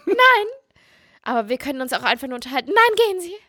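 very high, squeaky outraged voice; shrill frightened lady. Pretend. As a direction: play a prissy lady shooing off a man. Mock frightened prude shooing man.

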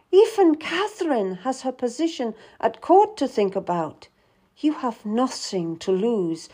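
lightly voiced queen, eager and pressing; pleading young queen. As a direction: plead for honest counsel. Anne voiced in the story.

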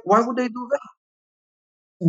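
sarcastic slow repeat of the lawyer; slow mocking echo. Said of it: "And I was like".

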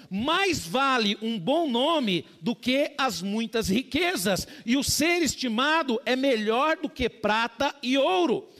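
lê o versículo devagar, com peso; solene, pausado; leitura bíblica. Real, not acted. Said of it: "lendo Provérbios". (leitura lenta e solene do versículo)

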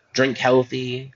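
"Drink healthy" drawn out slowly with a lift on "Drink"; slow it down, stretch out "Drink healthy". Shown as a demonstration. Vlogger mock-advising viewers, drawn out slowly. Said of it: "Yeah, drink healthy".

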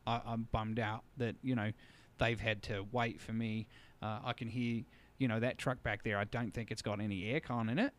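put-on a light Australian accent, retelling Steve; imitating an Australian trucker, mildly. Trucker stuck on the sand road, in a mild Australian accent. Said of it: "I'll try to do his accent".

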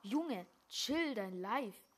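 loud, slow street slang bro voice. Acted. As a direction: drawl it like a cool bro. Slang voice to teammate.

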